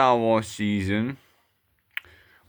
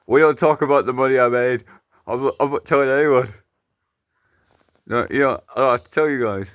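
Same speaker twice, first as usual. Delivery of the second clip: loud puppet outburst; 5 dB louder, faster than usual. Acted. Puppet blurts secret.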